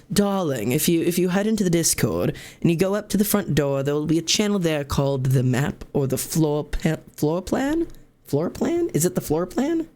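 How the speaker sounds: committing to the bit in a mild put-on British accent; almost British accent. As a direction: streamer to chat, playing along in a loose British accent. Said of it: "Almost British".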